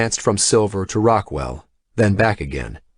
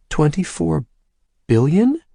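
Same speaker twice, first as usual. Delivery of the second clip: high, stunned disbelief; shocked; 8 semitones higher than usual. A narrator's reading. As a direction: gasp out the number in shock. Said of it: "looked like she was in shock".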